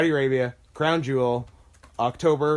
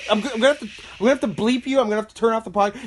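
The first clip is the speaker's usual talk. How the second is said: flustered, higher-pitched pleading; mock-outraged protest; 4 semitones higher, faster than usual. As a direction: protest in playful alarm, tripping over restarts. Mock outrage at co-host's opinion.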